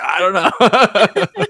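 drawn-out, high mock helplessness; clueless admission. Pilot has no landing plan.

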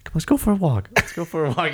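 falsely soothing bad guy; super calm. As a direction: coax them gently along. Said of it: "when the bad guys are super calm".

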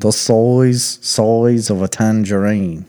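slow, careful Aussie "size"; trying an Australian accent. Shown as a demonstration. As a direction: tentatively copy the Aussie line. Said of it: "That's how you do an Australian accent".

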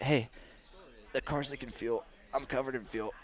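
breathless, gasping between words; out of breath. Retold or imitated. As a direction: pant it out like just dragged from a wreck. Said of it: "like, all out of breath".

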